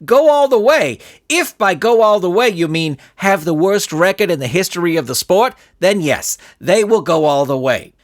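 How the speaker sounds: loud, mocking sarcasm; the coach sneering at the villain's hope; sarcastic coach. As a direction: scoff at the idea.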